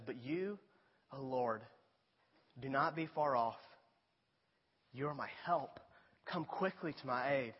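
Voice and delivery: a subdued, reverent appeal to God; hushed plea. Retold or imitated. Psalmist appealing to God for help, quietly pleading. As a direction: quote a prayer gently, in earnest. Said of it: "he begins to plead".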